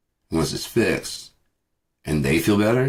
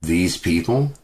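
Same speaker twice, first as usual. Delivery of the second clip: disbelieving echo; slower than usual. Retold or imitated. Vlogger scoffing at the cashier's words, disbelieving. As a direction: repeat her words in disbelief. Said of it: "repeats the quote".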